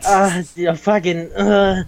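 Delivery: drawn-out exasperated groaning; mock exasperation. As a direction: imitate someone too fed up to finish. Friend called away again, retold.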